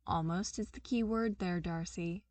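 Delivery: calm her down gently; hushed reassuring correction; patiently. Acted. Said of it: "Maria said patiently".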